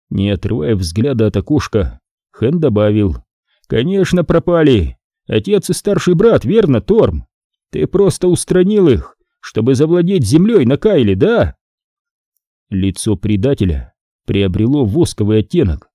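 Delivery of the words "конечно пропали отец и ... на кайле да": accusing smuggler. Acted. Han accuses Torm.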